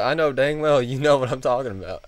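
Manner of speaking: put-on high, loud country-accented insistence. Customer insists the clerk understands, country accent. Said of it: "He's got a real country accent".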